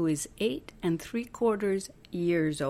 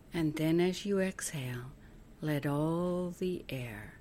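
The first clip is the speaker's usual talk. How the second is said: guided meditation; 5 dB quieter than usual. Acted. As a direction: guide them gently through each breath, letting phrase endings soften. Leads breathing visualization.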